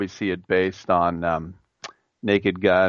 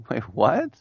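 high, incredulous "what"; mock disbelief; 6 semitones higher than usual. Galarraga hearing the blown call, stunned disbelief. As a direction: play Galarraga, stunned and smiling. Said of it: "he was like".

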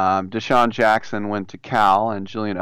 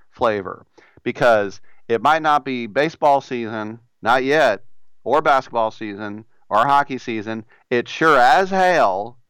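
put-on Southern accent. Radio host reading a chicken ad in a put-on Southern accent. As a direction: sell the chicken like a down-home Southern pitchman. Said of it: "Why do I do a Southern accent?".

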